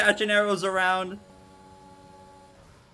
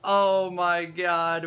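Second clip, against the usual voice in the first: slow, drawn-out oh my god; despairing; much slower than usual. Real, not acted. Streamer to his teammates after losing, slow despair. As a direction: stretch it out in despair.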